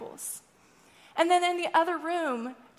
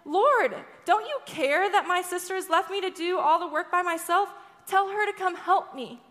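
indignant complaint; 3 semitones higher than usual. Retold or imitated. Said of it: "she storms into the other room".

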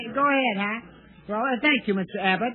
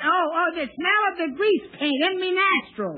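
stage Cockney; 6 semitones higher than usual. Acted. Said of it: "the word is nostrils, not nostrils".

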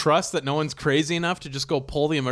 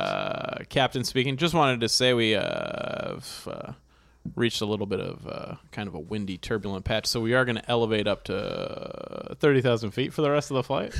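airline captain voice. Acted. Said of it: "the pilot announcing".

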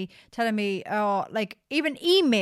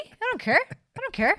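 carefree; 11 semitones higher than usual. Pretend. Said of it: "I'd be like".

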